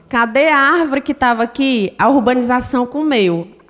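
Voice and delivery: ordinary talk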